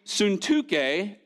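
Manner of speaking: "Suntuke" said soon-TOO-kay; playful, slow soon-TOO-kay for "Suntuke"; fun pronunciation. Shown as a demonstration. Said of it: "the most fun pronunciation".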